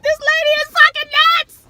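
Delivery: high, loud incredulous aside; disbelieving thought. Retold or imitated. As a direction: think it in wide-eyed disbelief. Inner thought about the lady.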